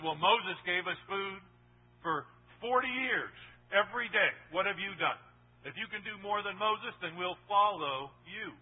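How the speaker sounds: demanding crowd. Retold or imitated. Preacher voices demanding crowd.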